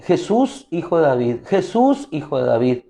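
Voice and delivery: mild mock call, each Jesús lifted. Beggar crying out again over the crowd, lightly voiced shout. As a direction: repeat the name like calling out. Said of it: "él gritaba mucho más".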